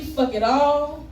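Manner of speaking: a light take on a deadpan repeated line; El Varner voice. Retold or imitated. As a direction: poet mimicking another poet's refrain. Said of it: "All in my El Varner voice".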